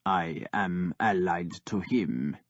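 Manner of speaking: flat, low and slow; toneless. Acted. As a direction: say it with no feeling at all. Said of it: "Ivar said tonelessly".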